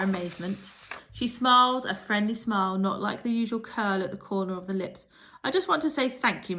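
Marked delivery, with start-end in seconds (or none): 5.4-6.6 teacher. A narrator's reading. Strict teacher softened.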